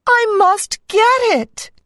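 a dismayed cartoon princess crying out. A narrator's reading. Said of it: "cried the princess".

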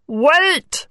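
frog voice. A narrator's reading. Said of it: "said the frog".

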